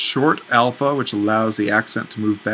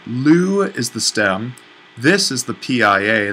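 slow teaching voice. Shown as a demonstration.

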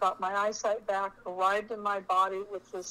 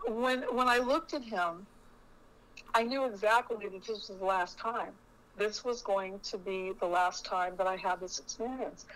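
getting emotional. Real, not acted. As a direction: hold back tears on the last time. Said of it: "I'm gonna get emotional now".

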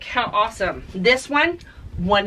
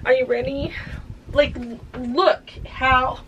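excited tease; 6 semitones higher than usual. Real, not acted. Teasing the reveal after washing.

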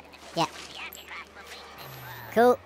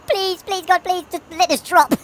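desperate pleading; 7 semitones higher, slower than usual. Real, not acted. Praying for the lift to drop.

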